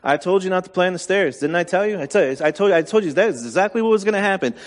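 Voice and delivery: quick, clipped i-told-you-so scold; scolding parent. Retold or imitated. Dad scolding his crying daughter, fast impatient scold. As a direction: rattle it off like a fed-up dad lecturing.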